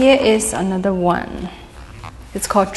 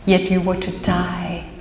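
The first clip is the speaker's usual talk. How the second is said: measured verse recital, pausing between lines; deliberate poetry-reading cadence; poem reading. Acted. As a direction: read it out as a poem, phrase by phrase. Reads own poem aloud.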